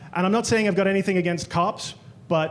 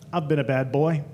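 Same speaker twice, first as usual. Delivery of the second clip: lower, teasing bedroom voice; flirty come-on; 5 semitones lower than usual. Retold or imitated. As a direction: purr it as a flirty tease. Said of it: "I'd turn to the guy and I'd say".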